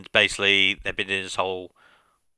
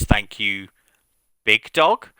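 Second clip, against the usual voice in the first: pointed jab; 3 dB louder, slower than usual. Retold or imitated. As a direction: land the nickname as a dig. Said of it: "He goes".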